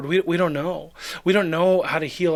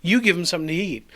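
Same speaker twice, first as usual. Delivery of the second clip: laughing; faster than usual. Shown as a demonstration. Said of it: "laughs, repeats the line".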